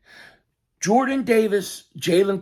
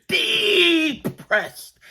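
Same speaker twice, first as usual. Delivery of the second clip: mock crying; 10 semitones higher than usual. Mocking sad Cowboys fans.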